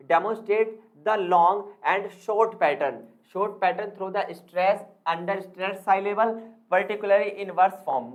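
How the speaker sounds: slow, word-by-word dictation of a definition; dictating slowly. Shown as a demonstration. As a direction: read it out slowly so students can write it down. Reads definition slowly for notes. (धीरे-धीरे notes लिखवाते हुए)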